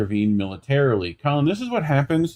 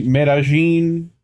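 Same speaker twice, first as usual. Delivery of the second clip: attempted Colombian accent; 2 semitones higher, 3 dB louder, slower than usual. Shown as a demonstration. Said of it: "Y'all's accent's weird".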